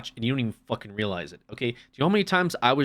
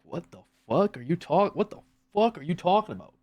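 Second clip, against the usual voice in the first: raised pitch, mock-incredulous; baffled disbelief; 6 semitones higher than usual. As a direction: react baffled to a chirpy morning person. Acted reaction to chirpy morning people.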